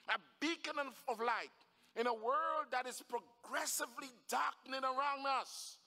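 emphatic sermon cadence, building; impassioned preaching. Real, not acted. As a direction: drive each phrase home to a congregation. Preaches with rising force.

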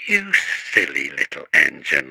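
low, chuckling fond scold; laughing. A narrator's reading. Driver teases his worried engine, low and laughing. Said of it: "laughed his driver".

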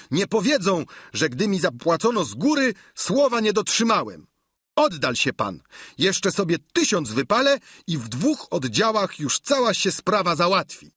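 high-pitched, eager servant voice; Sancho. A narrator's reading. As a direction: play the squire pitched well above the narration. (wysoki głos giermka)

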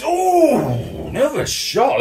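high, loud burst at the chance; excited shot call. Acted. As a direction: jump up as the shot flies in. Shot on goal in commentary.

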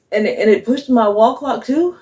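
laughing. Real, not acted. Laughing at the clock confusion.

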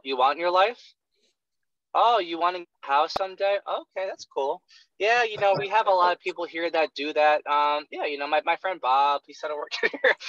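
a flat, robotic, monotone sales call; mock the bored rep who drones through his questions; robotic monotone salesman. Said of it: "And this is how you sound".

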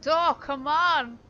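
high, slow, loud yell at a stuck door; frustrated yell. Real, not acted. Streamer yelling at a door that won't open, slow furious yell. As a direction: drag it out, furious.

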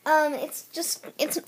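a little hoarse from a sore throat. Real, not acted. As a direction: speak through a sick, sore throat. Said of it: "my throat's sore".

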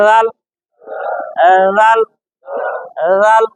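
লাল begun with a soft dh, tongue tip out; soft buzzing first sound on লাল; very soft letter. Shown as a demonstration. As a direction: say লাল as a gentle "dhaal", tip between the teeth. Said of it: "নরম একেবারে".

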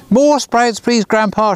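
hammed-up eager child; eager shout. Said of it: "shouted Kitty".

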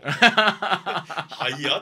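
mock Kansai. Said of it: "とか言ってたもん".

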